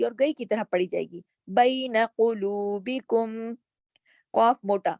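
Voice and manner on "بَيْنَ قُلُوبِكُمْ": قُلُوبِكُمْ with heavy ق, thin ل; thin lam. Shown as a demonstration. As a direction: qaf thick, lam light. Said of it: "لام باریک". (قاف موٹا، لام باریک)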